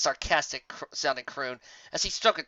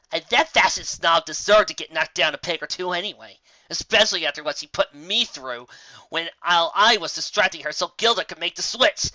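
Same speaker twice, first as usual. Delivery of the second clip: higher brash tomboy pony; 4 semitones higher, 7 dB louder than usual. Acted. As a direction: coax a grumpy friend with a grin. Rainbow Dash complaining.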